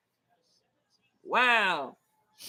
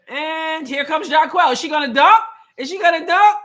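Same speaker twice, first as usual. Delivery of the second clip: louder, rising call of the play; excited; 3 semitones higher, 6 dB louder than usual. Real, not acted. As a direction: hype the possible dunk.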